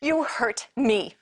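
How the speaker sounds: slow first, then a high loud cry of hurt; anguished accusation. Acted. Wife crying out to Billy that he hurt her, anguished shout. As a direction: throw the pain right at him. Wife confronts husband over affair.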